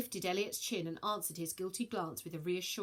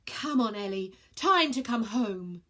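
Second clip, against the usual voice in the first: tearful pleading; 2 semitones higher, 7 dB louder than usual. Acted.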